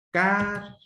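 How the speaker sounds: "cárcel" broken in two, CÁR held high, long pause, then CEL; syllable by syllable. Shown as a demonstration. Teacher separating a word into syllables for pupils, syllable by syllable. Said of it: "Sepáralas en sílabas".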